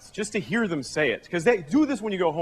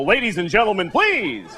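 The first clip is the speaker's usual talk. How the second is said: stern parent. Pretend. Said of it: "when he gets out of hand, I get to go".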